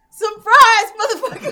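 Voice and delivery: shout. Acted. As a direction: yell it with gleeful fury. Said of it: "At which point I shout".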